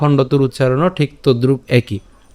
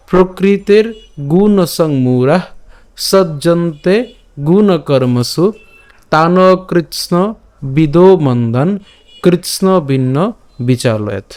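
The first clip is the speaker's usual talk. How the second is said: slow, measured verse reading with drawn-out vowels; shloka recitation; slower than usual. Shown as a demonstration. Teacher presenting today's shloka to learners, slow recitation. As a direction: recite the verse phrase by phrase, slowly. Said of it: "তাই আমি আরেকবার বলছি".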